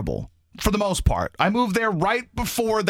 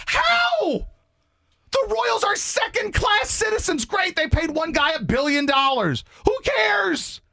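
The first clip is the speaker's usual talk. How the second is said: exasperated rant; slower than usual. Real, not acted. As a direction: rail at them in disbelief. Ranting at fans.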